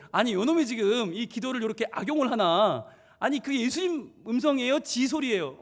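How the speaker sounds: mild mock indignation; angry father. Dad fuming over child misusing prayer, mildly indignant. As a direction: imitate an exasperated dad grumbling. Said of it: "아빠가 화가 나가지고".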